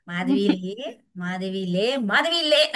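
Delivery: father calling to wake. Retold or imitated. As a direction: call her name to wake her up. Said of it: "మూడు సార్లు పిలిచేవారు".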